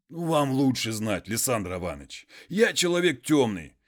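a hint of a humble muzhik pleading; peasant voice.

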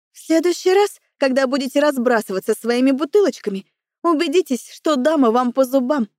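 clearly articulated warning to a man; crisp enunciation. A narrator's reading. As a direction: pronounce every word distinctly. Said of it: "Произношу чётко". (чётко, с расстановкой)

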